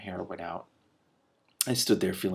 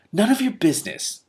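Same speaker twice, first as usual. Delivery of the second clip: curt; 12 semitones higher, 5 dB louder than usual. Acted. Girl refuses to answer.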